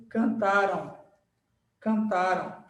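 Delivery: "cantaram" with a U glide at the end; final U sound. Shown as a demonstration. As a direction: say "cantaram" ending in a nasal ão. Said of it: "aparece um U".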